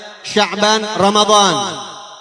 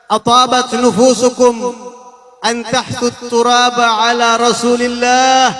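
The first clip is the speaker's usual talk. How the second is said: grief-stricken reproach; 3 semitones higher, slower than usual. Acted. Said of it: "Sayyidah Fatimah bilang apa?".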